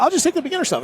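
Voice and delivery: high-pitched mock bow-out; meek bow-out. Novice begging off to the instructors, high retold protest. Retelling his timid bow-out of shooting.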